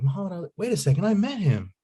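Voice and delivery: high-pitched, dawning disbelief; re-enacted astonished realization. Student learns who wrote the poem, acted amazement. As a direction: act out the penny dropping, voice jumping up.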